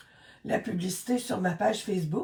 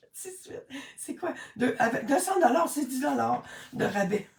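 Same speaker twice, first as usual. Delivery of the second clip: laughing; 4 semitones higher than usual. Real, not acted. Laughing over her math.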